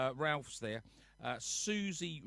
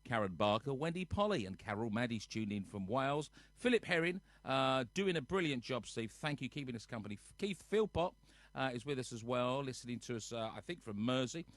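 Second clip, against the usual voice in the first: DJ voice. Pretend. Host reading viewer names as a mock radio DJ. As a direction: play the cheesy radio host, half in jest. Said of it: "Shall I put my D J voice on?".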